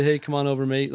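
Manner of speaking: lightly put-on English accent; half-hearted imitation of an English accent; retold invite in a poor English accent; bad English accent. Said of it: "it was the worst English accent".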